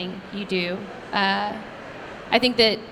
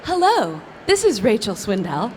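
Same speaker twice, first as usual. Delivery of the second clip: grown-up voice. Retold or imitated. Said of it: "in her best, like, grown-up voice".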